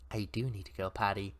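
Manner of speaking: put-on low, soft hushed kid. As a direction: say it quietly, a little embarrassed. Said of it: "he says in a hushed voice".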